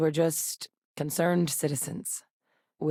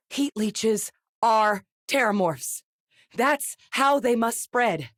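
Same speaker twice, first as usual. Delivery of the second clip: dawning realization; 5 semitones higher, slower than usual. Acted. Sudden realization about the creatures' origin.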